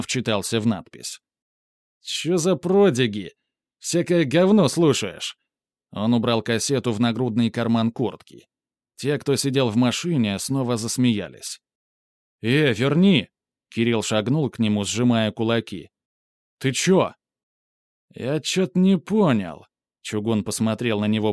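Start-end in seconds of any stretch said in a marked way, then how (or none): 2.0-5.4 high sneering thug, slowing; scornful, drawn-out jeer; street thug. A narrator's reading. 12.4-13.3 demanding shout. A narrator's reading. Kirill demands cassette back. 16.6-19.7 street thug. A narrator's reading. Thug squaring up.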